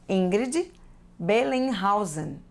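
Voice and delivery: Ingrid Bellenhausen read carefully as in Portuguese; slow, careful "Bellenhausen" after a rising "Ingrid"; pronunciation demo. Shown as a demonstration. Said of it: "As letras se pronunciam da mesma forma".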